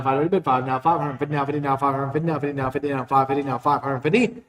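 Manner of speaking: rapid rolling bid chant; auctioneer. Acted. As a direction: rattle off the bids like an auctioneer.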